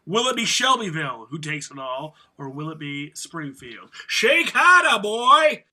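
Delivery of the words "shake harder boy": loud, high barked command; shouted quote. Acted. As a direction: bellow the order at the boy.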